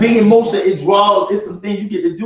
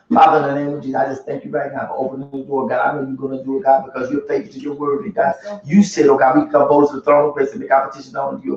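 imitated rote prayer; 7 semitones lower than usual. Preacher mimics praying over a member's bill, imitated low prayer. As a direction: rattle off a prayer in a lower, subdued voice. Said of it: "We go through the whole prayer".

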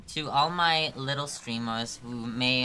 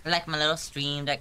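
"I like my little stream deck" said higher and louder; more excited repeat; 4 semitones higher, 4 dB louder than usual. Shown as a demonstration. Streamer gushes over her stream deck, louder. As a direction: repeat it with real gusto.

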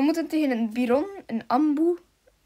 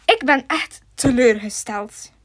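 mock disappointment; 6 dB louder, slower than usual. Gespeelde teleurstelling.

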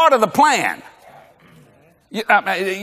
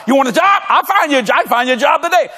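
raised, pushy promise; brisk offer; 4 semitones higher, faster than usual. Retold or imitated. Pastor answering a jobless man, acted.

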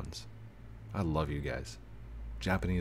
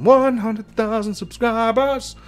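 much higher, loud, slow sing-song cheer; gleeful shout; 10 dB louder, slower than usual. Pretend. YouTuber skipping through Walmart, gleeful shouting. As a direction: skip along yelling it out with joy. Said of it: "me skipping through Walmart going".

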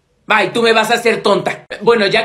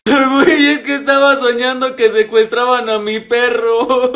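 tearful wail. Acted. Waking upset from a bad dream.

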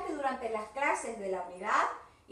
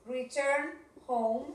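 slow it down once more, gently; slow model again; much slower than usual. Shown as a demonstration. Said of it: "Vamos a poner return". (lento y suave)

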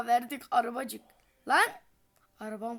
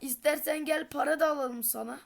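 sarcastic; 4 semitones higher, 5 dB louder than usual. Real, not acted. Mocking the demanding car.

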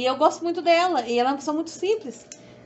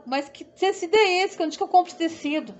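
higher-pitched mock questioning; raised pitch, mildly puzzled questions; puzzled commenters; 5 semitones higher than usual. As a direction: lightly imitate baffled commenters asking. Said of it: "as pessoas começaram".

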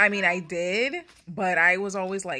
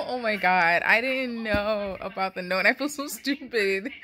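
louder, breathless disbelief; overwhelmed excitement; 6 dB louder than usual. Real, not acted. Reader finding the author's note, genuinely overwhelmed. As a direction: gush at the surprise note. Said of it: "I'm emotional".

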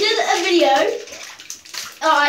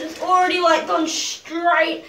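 shivering in icy water; words shaking with cold. Real, not acted. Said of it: "Heaps of goosebumps".

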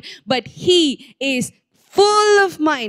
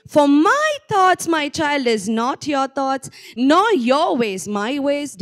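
joyful hopeful tone. Shown as a demonstration. Preacher rereads the verse to the congregation in a joyful, hopeful tone. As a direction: read it as the Lord speaking to his child with joy. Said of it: "shall we read that with that very note here".

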